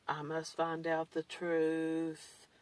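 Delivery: mock dramatic resolve. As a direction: play a follower hooked by the bait. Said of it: "some of those people are gonna say".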